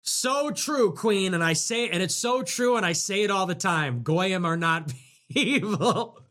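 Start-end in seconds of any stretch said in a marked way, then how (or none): 4.0-6.2 laughing. Real, not acted. Laughing mid-line.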